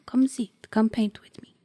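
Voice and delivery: put-on whispery old abuela; old grandmother voice. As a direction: invite like a frail grandma.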